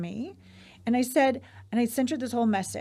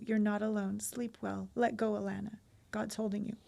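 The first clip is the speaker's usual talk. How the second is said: soothing bedtime read-aloud. Real, not acted. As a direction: read it like a blessing that settles someone to sleep. Reads aloud a soothing bedtime message.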